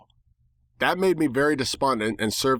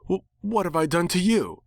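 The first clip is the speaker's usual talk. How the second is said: high, stammered disbelief; affronted bird, pitched up; incredulous; 8 semitones higher than usual. A narrator's reading. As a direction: caught off guard and offended. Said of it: "it asked incredulously".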